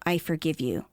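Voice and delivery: mean it, from a healed place; settled forgiveness. Retold or imitated. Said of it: "from a place of".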